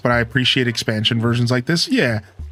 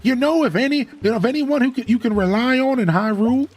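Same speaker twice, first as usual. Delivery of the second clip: put-on old tortoise character; 12 semitones higher than usual. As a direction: play a chummy old tortoise mayor. Voices Tortimer in the game.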